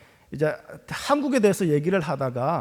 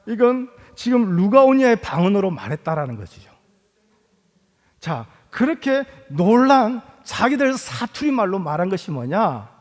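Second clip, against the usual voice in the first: usual speaking voice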